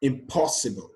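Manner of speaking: "impossible" with stress on "po"; stress on second syllable. Shown as a demonstration. Teacher giving the correct option, "impossible" stressed on "po". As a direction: lean on the "po" in "impossible". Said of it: "the correct option here is po".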